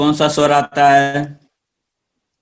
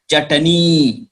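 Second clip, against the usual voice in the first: normal talking voice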